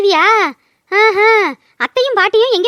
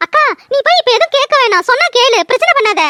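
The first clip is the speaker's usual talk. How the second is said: higher, urgent plea to hold her back; anxious pleading; 4 semitones higher than usual. Acted. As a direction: beg her sister not to start trouble. Younger sister begs sister not to fight. (பதட்டத்துடன் உயர்ந்த குரலில் கெஞ்சுதல்)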